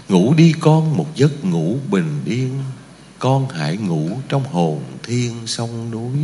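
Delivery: put-on rock the child to sleep with words; tender lullaby. Lullaby-like poem ending.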